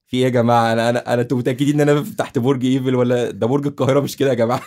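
like you can't believe your eyes; incredulous outburst. Retold or imitated. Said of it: "أنا قعدت".

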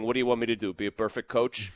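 Boston coach, defensive and weary; Sullivan Boston accent. Retold or imitated. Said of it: "I could imagine Sullivan in that Boston accent saying".

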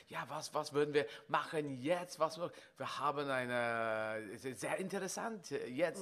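bouncing around on stage fumbling for German words; mock German improv. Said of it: "I was bouncing around and saying".

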